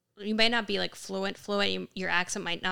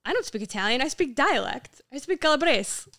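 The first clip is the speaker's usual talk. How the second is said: mock indignant, rising higher and louder; indignant correction; 6 semitones higher, 7 dB louder than usual. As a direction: imitate an emphatic dad setting the record straight. Dad retold correcting mom's Italian.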